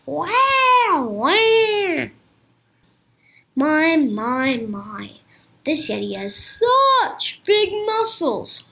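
put-on a gentle, kindly old king greeting friends. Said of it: "The king replied kindly".

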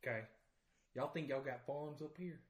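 put-on Southern accent. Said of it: "he's doing it".

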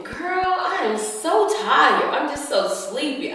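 put-on a touch of sleepy girl-talk; tired complaint to girlfriends. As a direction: drag it out like you're exhausted. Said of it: "And I was saying".

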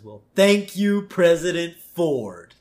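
put-on high, slow old-man boss; drawn-out grateful old tycoon. Burns voiced in retold joke.

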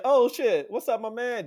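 mock high hype hello to an old friend; high, excited shout-out to an old head; excited greeting. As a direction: pitch it up, greeting a buddy in a crowd.

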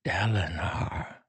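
second quiet call, lifted pitch; whispered name, rising. A narrator's reading. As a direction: repeat the name hushed and pleading. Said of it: "Taravangian whispered".

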